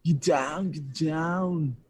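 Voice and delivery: high, mock-Austrian action-hero command; Arnold Schwarzenegger impression. Guest quotes Arnold for the streamer, hammed-up Austrian accent. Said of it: "try to do an Austrian accent".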